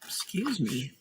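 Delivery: talking through hiccups. Real, not acted. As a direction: hiccup in the middle of it. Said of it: "That's the hiccups".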